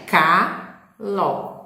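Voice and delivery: caló said slowly with a K in place of the G; caló with a hard K; swapped letter demo. Shown as a demonstration. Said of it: "retirar o G e colocar o C".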